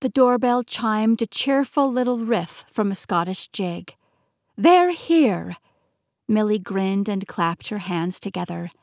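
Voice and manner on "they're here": high, loud, delighted cry; thrilled, raised-pitch exclamation; excited announcement. Acted. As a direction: announce guests with glee. Aunt delighted guests arrive.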